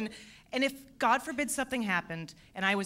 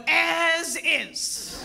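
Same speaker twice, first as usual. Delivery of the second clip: deadpan; 7 semitones higher, 6 dB louder than usual. Retold or imitated. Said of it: "So finally I just put".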